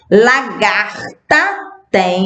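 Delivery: Lagarta said slowly with a hard G; slow sounded-out word. Shown as a demonstration. Teacher showing kids the hard G in Lagarta. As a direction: draw out Lagarta so its hard G is heard. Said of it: "eu vou circular".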